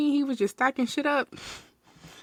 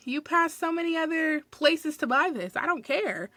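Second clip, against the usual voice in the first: crying voice; 6 semitones higher than usual. Retold or imitated. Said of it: "I hear her voice cracking".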